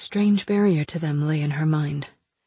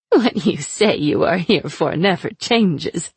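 sly, mocking captive witch; taunting sorceress voice; slower than usual. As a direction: purr it out like a cruel captor. Aina mocking.

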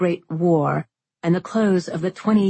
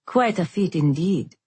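sarcastic. Acted. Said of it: "though his tone suggested otherwise".

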